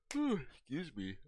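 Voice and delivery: talking through a yawn. Real, not acted. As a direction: yawn while speaking. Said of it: "I don't know why I'm yawning".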